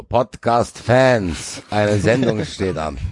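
slow, drawn-out mock rallying call; lightly voiced coach greeting, laughing; pep speech. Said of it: "begrüßen, glaub ich, unsere Hörer auch in Zukunft so".

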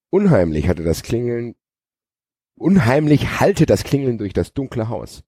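suspense-novel reading; dramatic story narration. A narrator's reading. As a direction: open the chapter with theatrical weight. Opens new chapter dramatically.

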